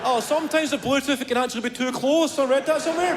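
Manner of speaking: a relative showing off half-read tech tips; know-it-all relative. Retold or imitated. Family member offering tech advice.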